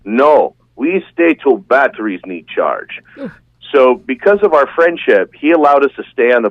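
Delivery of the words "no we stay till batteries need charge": lightly put-on Russian accent; hint of a Russian accent; bad Russian accent. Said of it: "it'll be a really bad Russian accent".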